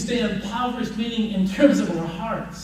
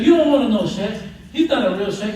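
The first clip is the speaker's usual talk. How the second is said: indignant; 6 dB louder than usual. Acted. Student reporting to his teacher.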